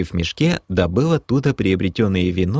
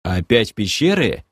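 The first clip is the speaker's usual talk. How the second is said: astonished. Acted. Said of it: "поразился я".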